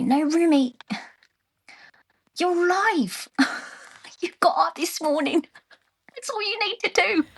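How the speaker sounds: put-on high, light Burmese-accented voice. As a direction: speak as an older Burmese woman. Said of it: "imagine her, like, with a Burmese accent".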